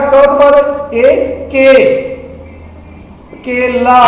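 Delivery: slow spelling, क and ए blended into के, then केला; sounding out letters. Shown as a demonstration. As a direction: build केला sound by sound for children. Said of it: "ए दा की बन जाएगा?". (अक्षर जोड़कर धीरे-धीरे बोलना)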